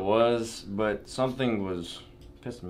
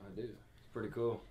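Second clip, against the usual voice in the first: whispering; 12 dB quieter than usual. Real, not acted. Quiet house, others sleeping.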